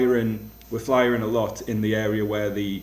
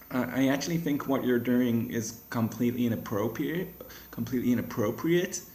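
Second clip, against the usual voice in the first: put-on a half-hearted American accent, softer; attempted American accent; 3 semitones higher, 3 dB quieter than usual. Imitating a disapproving American woman in a cafe, American accent. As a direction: try an American accent and admit it is shaky. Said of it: "I can't do the accent, but I'll give it a go".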